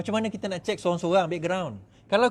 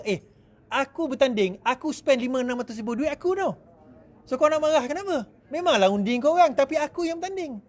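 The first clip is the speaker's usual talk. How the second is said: mock smug candidate; 6 semitones higher than usual. Imitating arrogant candidate.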